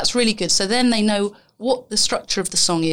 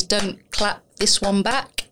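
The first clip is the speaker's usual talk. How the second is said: slow, deliberate classroom call; slow teacher instruction; slower than usual. Shown as a demonstration. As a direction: say it slowly like a game rule. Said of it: "probably our listener knows".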